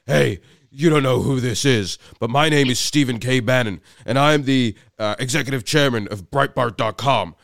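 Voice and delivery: lightly mimicked big booming American voice; booming Bannon. Bannon booming down the phone at the startled caller. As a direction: boom it down the phone a little. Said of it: "just booms this voice at me".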